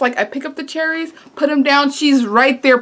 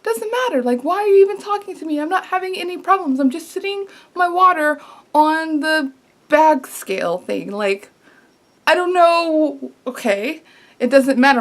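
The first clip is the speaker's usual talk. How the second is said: annoyed inner retort; 4 semitones higher than usual. Retold or imitated. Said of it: "And I'm like".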